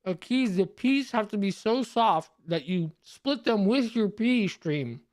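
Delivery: talking through a mouthful of soup; mouth full. Real, not acted. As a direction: talk with your mouth full. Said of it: "It's rude to talk with your mouth full".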